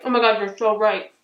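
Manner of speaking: talking through a mouthful of cookie; words around a bite; mouth full. Real, not acted. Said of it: "I'm talking with my mouth full".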